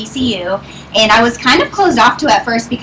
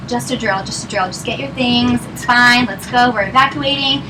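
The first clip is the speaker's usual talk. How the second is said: comforting, quieting. Retold or imitated. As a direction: hush it down gently, as if settling someone. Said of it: "I'm comforting her, quieting her down".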